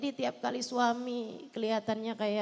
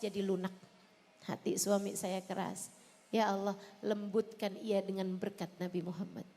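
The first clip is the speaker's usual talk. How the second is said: heartfelt prayer; 3 semitones lower than usual. Shown as a demonstration. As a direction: plead humbly with God, phrase by phrase. Prays the salawat's meaning aloud.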